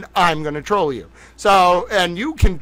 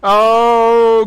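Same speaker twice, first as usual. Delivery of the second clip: higher, louder burst; delighted; 6 semitones higher, 10 dB louder than usual. Real, not acted. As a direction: relish it. Delighted exclamation.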